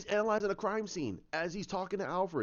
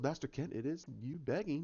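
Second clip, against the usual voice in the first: soft-spoken butler; quiet, polite correction; Alfred; 6 dB quieter than usual. Retold or imitated. Butler telling Master Kent he is begging, softly.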